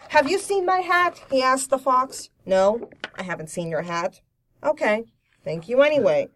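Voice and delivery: lightly acted deadpan animal dialogue; dry humor. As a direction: read the storybook exchange with understated wryness. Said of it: "sort of dry humor".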